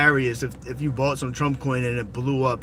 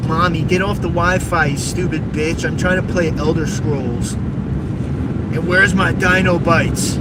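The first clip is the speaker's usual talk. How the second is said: louder spoiled brat shouting at mommy; mock tantrum, yelling at mom; bratty kid yelling; 2 semitones higher, 3 dB louder than usual. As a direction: scream demands like a spoiled gamer kid. Mocking a whiny kid demanding food.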